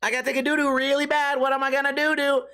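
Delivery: mock panic about needing the toilet; urgent need to poop. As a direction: plead like you're about to burst.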